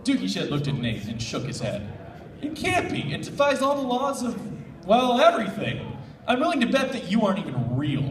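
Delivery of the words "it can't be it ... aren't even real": disbelief. Acted. Doogie's stubborn disbelief.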